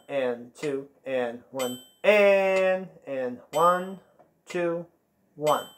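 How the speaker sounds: steady rhythmic count over the music; counting the rhythm aloud. Shown as a demonstration. Teacher counts the band through the rhythm, steady and rhythmic. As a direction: keep the beat by counting it out.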